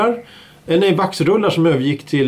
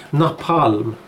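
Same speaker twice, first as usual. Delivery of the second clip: napalm with weight on the second A; stress on second A; 3 semitones lower than usual. Shown as a demonstration. Host gives an example word, napalm stressed on second A. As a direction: lean on the final syllable of napalm. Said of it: "Då är det betoning på A".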